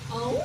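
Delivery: lolongan serigala pendek; auman serigala. Shown as a demonstration. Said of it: "Gimana suara serigala?".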